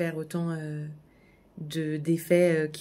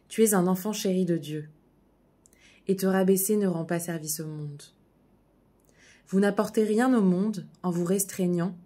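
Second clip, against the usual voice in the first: a slightly louder, measured reading voice with long pauses between sentences; inspirational reading; 4 dB louder than usual. Acted. Reading a Marianne Williamson text to her viewers, solemn and measured. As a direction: read it like a heartfelt text shared with friends.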